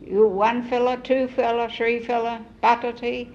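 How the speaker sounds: pidgin demonstration. Shown as a demonstration. Demonstrating pidgin counting of potatoes.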